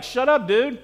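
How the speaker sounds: mock-harsh telling-off; harsh retort. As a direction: play an irritated listener hushing someone. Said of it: "that sounds kinda harsh".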